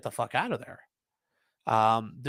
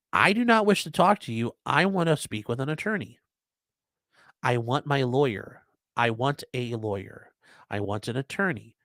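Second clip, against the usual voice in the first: unequivocal. Shown as a demonstration. Citizen refuses federal interrogation and demands a lawyer, unequivocal. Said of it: "but you make it unequivocal".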